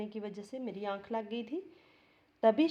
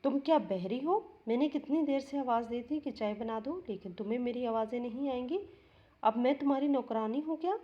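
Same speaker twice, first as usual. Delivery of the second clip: raised, scolding voice, a bit louder; angry scolding; 3 semitones higher, 3 dB louder than usual. Retold or imitated. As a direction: snap at the sister-in-law. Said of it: "और बहुत गुस्से में थी।". (गुस्से में ऊँची आवाज़ में डाँटना)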